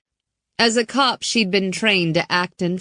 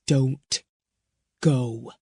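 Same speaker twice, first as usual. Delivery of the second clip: pleading man; 4 semitones lower than usual. Acted. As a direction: hold her back gently. Bowman voiced.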